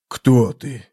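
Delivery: usual speaking voice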